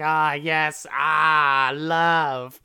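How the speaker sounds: loud, high, drawn-out ecstatic cries; over-the-top imitation of lovestruck rapture; mock crazed joy. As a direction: ham up a crazy burst of love. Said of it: "they just go crazy for a second".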